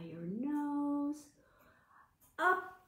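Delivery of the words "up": swoops way up high and loud; high stretching call. Acted. Teacher stretching kids up, calling high. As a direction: reach for the sky with your voice.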